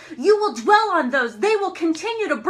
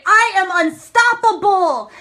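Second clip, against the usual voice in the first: slow, louder proclaimed affirmation, he pushes out each word; mock yell; 2 semitones higher, 5 dB louder than usual. Slow half-hearted yell. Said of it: "He would yell it at the top of his lungs".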